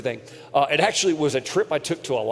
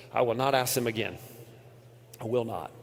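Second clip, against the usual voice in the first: quiet inner vow; 5 semitones lower, 7 dB quieter than usual. Retold or imitated. Inner vow during painful hike.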